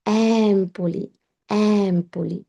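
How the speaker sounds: এমপোলি slowly, EM-po-li with stress on EM; এমপোলি in clean Italian; এমপোলি said slowly with the stress up front; correct Italian Empoli. Shown as a demonstration. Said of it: "এটার উচ্চারণ হচ্ছে".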